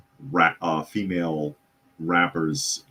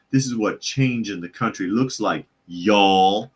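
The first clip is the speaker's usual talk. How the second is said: mock Southern drawl. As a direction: mimic a Southern drawl and punch the closing y'all. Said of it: "adding with a drawl".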